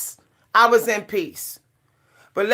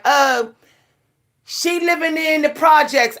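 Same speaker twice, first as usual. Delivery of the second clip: mimicking a critic, pitched higher; mock accusing quote; 4 semitones higher than usual. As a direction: put on a judging busybody's voice, raised.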